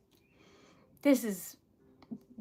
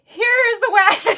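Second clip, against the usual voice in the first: frantic; 9 semitones higher, 13 dB louder, slower than usual. Retold or imitated. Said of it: "I'm over here like".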